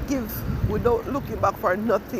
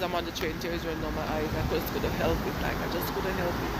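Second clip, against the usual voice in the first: tearful; 5 dB quieter than usual. Real, not acted. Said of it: "I'm sorry for crying".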